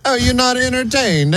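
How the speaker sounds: high cartoon Italian accent; Mario voice. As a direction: ham it up like Mario. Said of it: "sounded like Mario".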